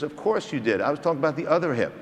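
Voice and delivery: imitating a debonair South African colleague; lightly imitated South African accent. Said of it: "he has that great South African accent".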